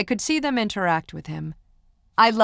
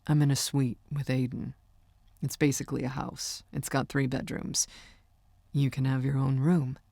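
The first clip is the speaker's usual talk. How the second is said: hushed, slightly lowered voice for Micah; lightly voiced boyfriend; 3 semitones lower, 4 dB quieter than usual. Singer teasing his girlfriend, lightly voiced and low-key. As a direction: lightly play the amused boyfriend.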